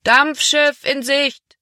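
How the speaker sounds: high, slow call from the riverbank; a man on the shore announces the steamer, long high call. A narrator's reading. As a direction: call out across the water, drawn out. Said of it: "erklang die Stimme eines Mannes".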